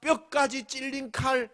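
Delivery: ordinary talk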